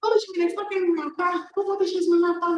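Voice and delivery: high, fast, frightened pleading; imitating a scared grandma who thinks she is under attack; delirious fear. Grandma tells granddaughter doctors want to kill her, high fast fear.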